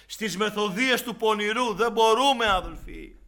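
loud, high, forceful sermon delivery; fiery preaching. Acted. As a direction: hammer the warning at the congregation.

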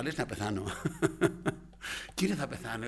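laughing through the words; amused retelling. Retold or imitated. Patient recalling his thought that he might die, laughing. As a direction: chuckle at your own past fear.

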